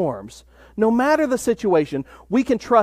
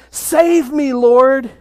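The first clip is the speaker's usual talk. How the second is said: mild mock shout; 4 semitones higher, 4 dB louder, much slower than usual. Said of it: "he shouted".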